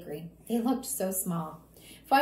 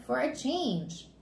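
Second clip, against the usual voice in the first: put-on higher, drawn-out kid voice; child echoing dad; 4 semitones higher, much slower than usual. Fudge throwing Dad's reason back, pointedly. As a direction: stretch the words, turning them back on your father.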